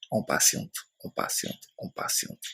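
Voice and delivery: repeats fading from soft voice to whisper; patient waiting trailing off into silence. Shown as a demonstration. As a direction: let the waiting die away into a whisper.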